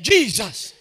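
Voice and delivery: loud mock group answer; shouted response. Boys answer their leader in church, loud mock yell. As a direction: imitate boys yelling back in drill.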